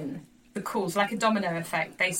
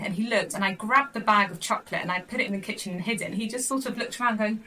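ordinary talk, nothing marked

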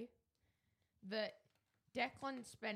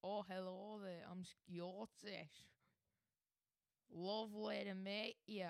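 hesitant, poorly faked Scottish accent; put-on Scottish accent. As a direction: try out a halting Scottish greeting. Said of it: "he's going to be using a Scottish accent".

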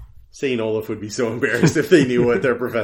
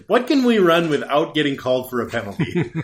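laughing mock coach; 2 semitones higher than usual.

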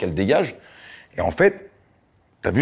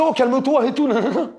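mock calm-down voice. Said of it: "Et il me disait".

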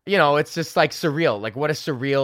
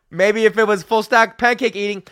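louder, higher, laughing through the line; laughing repeat; 8 semitones higher, 8 dB louder than usual. Real, not acted. Comedian repeats his pancake joke, laughing loudly. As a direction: crack up at your own joke.

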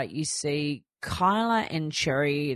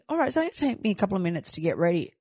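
breezy inner thought; 4 semitones higher, much faster than usual. Retold or imitated. Retold confident inner thought.

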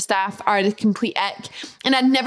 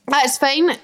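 confident; 3 semitones higher than usual. Retold or imitated. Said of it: "with confidence".

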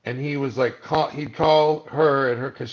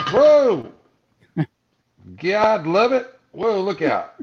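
much higher and louder, a hammed-up whoa; mock alarm; 8 semitones higher, 8 dB louder, slower than usual. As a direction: shout it like the ground just gave way. The world flipping upside down.

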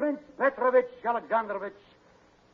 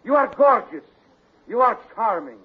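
warm smooth leading man; 5 dB louder than usual. Acted. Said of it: "trying to talk myself into it".

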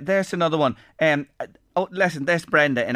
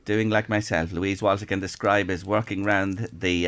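low, softer play-by-play; hushed live commentary; 6 semitones lower, 3 dB quieter than usual. Acted. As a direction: drop low like a commentator at a tense match. Commentates on the challenge.

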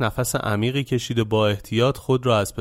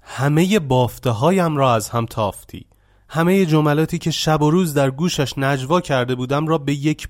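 angry accusation; 4 semitones higher than usual. Acted. Jilted young man blaming Shivana, mildly angry. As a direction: blame him, seething with resentment. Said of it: "با نگاهی خشمگین".

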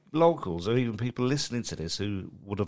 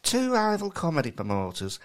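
higher, mincy attempt at co-host's West Country accent; Kai's accent; 5 semitones higher than usual. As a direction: West Country impression gone northern. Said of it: "that's you doing an impression of me".

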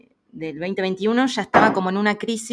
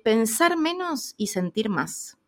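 put-on slow, deliberate advice from the old lady; slowly spelled-out life advice; slow wise words; 4 semitones higher, slower than usual. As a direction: lay out each word like a revelation. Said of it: "me dice".

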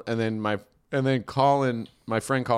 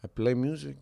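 put-on quiet Mexican-accented driver; soft-spoken Mexican accent; 6 dB quieter than usual. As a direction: imitate the cabbie's Mexican accent, softly. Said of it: "the quintessential Mexican accent".

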